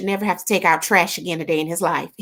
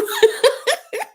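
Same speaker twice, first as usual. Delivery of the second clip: high laugh. Real, not acted. Reacting to Aruba greeting.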